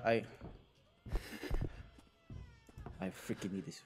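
soft desperate murmur; hushed. Real, not acted. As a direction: murmur in hiding. Hiding, desperate for fuse.

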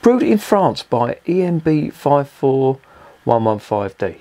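drawn-out mocking read of the can's label; slow mocking label read. Real, not acted. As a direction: spell out the code with slow disbelief. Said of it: "French convicts brewing beer now".

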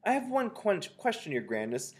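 high, timid-sized question to a leader; voice from the audience. A narrator's reading. Witch in the audience asking her grandness, high voice. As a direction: pitch it high as an underling witch. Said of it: "said a voice in the audience".

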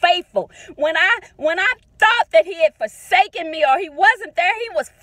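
rising, emphatic preacher's cadence; fervent preaching. Real, not acted. Mother preaching God's faithfulness on her daughter's birthday, fervent. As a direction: preach it like Sunday morning.

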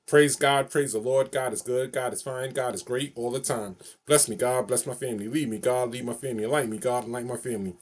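rhythmic call-and-response prayer recital; steady sing-song praise chant; recited prayer phrase. Shown as a demonstration. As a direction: chant it like a blessing you know by heart. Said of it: "I'm gonna just say my favorite phrase to you".

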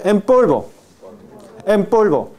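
"en polvo" said as "em polvo", lips closed for m before p; model pronunciation. Shown as a demonstration. Teacher showing the class "en polvo" joined as "empolvo". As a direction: model "en polvo" smoothly, the n becoming m. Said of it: "No hay diferencia de pronunciación".

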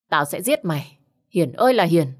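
a raging threat, the name yelled at the end; a man gone mad with fury, shouting for his wife; furious threat. Acted. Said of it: "như phát điên". (gào lên giận dữ như phát điên)

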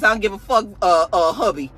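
retold boss bursting with excitement, loud and high; excited mock outburst. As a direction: play her hyped and bossy, half-mocking. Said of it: "she's all excited".

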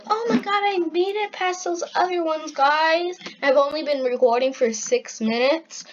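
excited and squeaky; high squeaky voice. Real, not acted. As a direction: voice stuck up high. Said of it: "my voice is gonna go high again".

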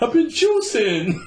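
mock innocent excuse. Cheating man excusing himself to his woman, high slow squeak.

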